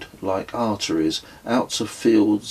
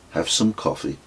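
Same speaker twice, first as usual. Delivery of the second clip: calm; 3 semitones lower than usual. Acted. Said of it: "he said calmly".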